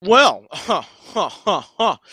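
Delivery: hammed-up haughty ha ha ha; mock laugh. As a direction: fake an uppity laugh. Duck character forced laugh.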